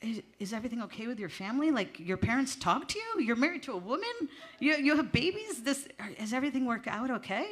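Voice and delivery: lightly voiced concerned older woman; concerned woman quoted. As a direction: rattle off worried questions like a caring auntie. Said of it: "she's like".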